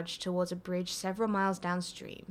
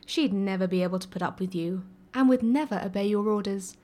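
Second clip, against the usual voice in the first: arguing, a bit louder; 4 dB louder than usual. Acted. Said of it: "Arthur argued".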